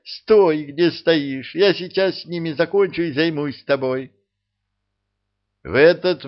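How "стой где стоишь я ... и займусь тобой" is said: furious count ordering her off; angry shout. A narrator's reading. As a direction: bark the order mid-brawl. Count keeps yelling at princess.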